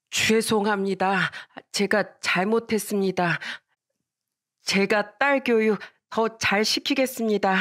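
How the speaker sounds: slow, deferential acted apology; humble apology. Mother bows to the friend's mother, slow humble apology. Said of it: "친구네 엄마한테 고개를 숙이면서 말씀하셨어요".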